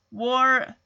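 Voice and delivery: "War-ni-ing" split into three separate syllables; sounding out a word. Retold or imitated. A child who can't read sounds out "War-ni-ing" syllable by syllable. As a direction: break "War-ni-ing" into three careful beats. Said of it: "sound out the word warning in, like, three syllables".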